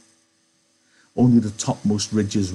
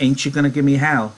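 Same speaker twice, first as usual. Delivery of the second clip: higher, louder, stammering plea; eager Lennie; 6 semitones higher, 7 dB louder than usual. A narrator's reading. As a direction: plead like an eager, simple man. Reader voices Lenny pleading with George.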